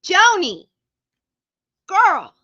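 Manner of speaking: loud, high, thrilled calling out of a name; excited shout-out. Real, not acted. Streamer thrilled to greet Joni, excited shout. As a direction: hype up a friend's name with a falling yell.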